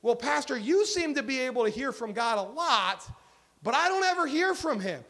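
mild complaint. Retold or imitated. Churchgoer complaining to the pastor, mild mock complaint. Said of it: "questions or complaints that I get".

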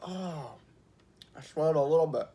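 talking through a mouthful; words round sticky food; mouth full. Real, not acted. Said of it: "it's gonna stuck in my teeth".

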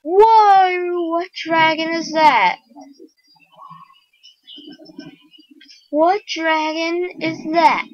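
loud, high burst of astonishment; amazed exclamation. Real, not acted. Player startled by a dragon in the game, amazed exclamation.

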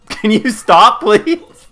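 high, slow, pleading cry; panicking gamer. Real, not acted. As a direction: beg them to stop, voice climbing. Pleading with teammate in game.

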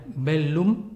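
bellum with a long, doubled L as in Italian; geminated double L. Shown as a demonstration. Teacher showing Latin double consonants, geminated L in bellum. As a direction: hold both Ls in bellum. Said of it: "la doble L se lee geminada".

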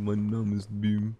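slow, mock bass voice; extremely deep bass voice. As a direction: drag it out in a put-on bass. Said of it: "Dieser Typ, der immer so mega tief".

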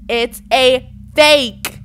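"It's a fake" loud and word by word; slow emphatic shout. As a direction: draw out "fake" at full volume. Repeats warning word by word.

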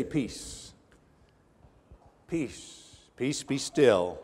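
soft, slow, hushing the storm; hushed command. Acted. Jesus stilling the wind and waves, hushed and slow. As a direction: peace breathed out to calm the waves.

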